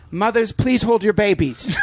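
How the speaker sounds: mock French flight attendant, announcing; imitated French stewardess voice over the intercom; French stewardess accent. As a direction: put on a French accent for the cabin call. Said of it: "stewardess in a French accent say".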